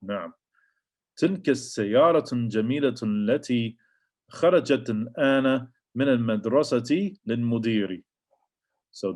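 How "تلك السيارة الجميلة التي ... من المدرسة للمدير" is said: تلك السيارة الجميلة read quickly and fluently; fast Arabic read. Shown as a demonstration. Teacher reads the example sentence aloud, fast. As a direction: run through the sentence quickly. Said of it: "reads the example sentence".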